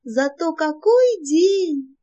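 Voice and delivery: high, slow and delighted; enthusiastic. A narrator's reading. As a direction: savour it, drawn out. Leya's cheering reply.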